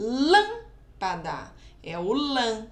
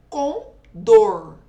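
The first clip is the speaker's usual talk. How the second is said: "com dor" in two beats, DOR much louder; stress on DOR; 11 dB louder than usual. Shown as a demonstration. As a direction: boom out the final DOR of "com dor". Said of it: "o dor é o mais forte".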